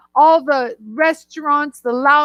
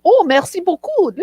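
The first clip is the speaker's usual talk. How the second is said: French; 3 semitones higher than usual. Retold or imitated. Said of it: "And Yara speaks French".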